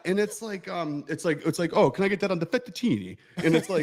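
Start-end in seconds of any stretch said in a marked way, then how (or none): 1.7-3.2 higher mock Italian flourish on "fettuccine"; mock Italian accent. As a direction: imitate a diner overdoing the Italian. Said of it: "making fun of people".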